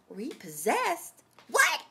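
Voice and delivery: slow echo of the word, then a high outburst; stunned disbelief. Retold or imitated. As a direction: repeat it dumbfounded, then yelp. Retold shock at repossession news.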